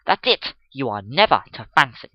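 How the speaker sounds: loud, triumphant declaration; elated. Acted. Gentleman driving his point home to the girl, triumphant. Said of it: "quite elated".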